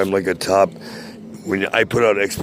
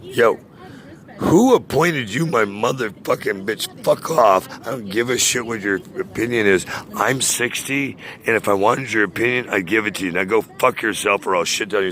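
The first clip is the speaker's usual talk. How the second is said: mock telling-off, a bit raised; retold snapping; 2 semitones higher than usual. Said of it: "I just kinda snapped and I went".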